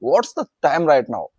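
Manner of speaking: very slow and clear; slow model sentence. Shown as a demonstration. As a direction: spell the question out slowly. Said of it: "आपको मुंह से बोलना है". (धीरे-धीरे पूछें)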